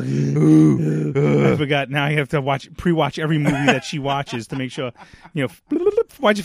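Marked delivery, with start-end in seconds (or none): 0.0-1.2 mock groan. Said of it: "I was like".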